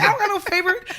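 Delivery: high-pitched mock-angry retort; mock anger. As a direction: act out a mildly angry refusal, half laughing. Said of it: "Do you say it angry like that?".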